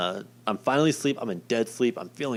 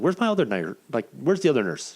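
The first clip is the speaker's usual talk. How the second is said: higher-pitched, acted-out complaint; retold annoyance; 4 semitones higher than usual. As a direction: whine for the other nurse in mock anger. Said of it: "just very, very mad".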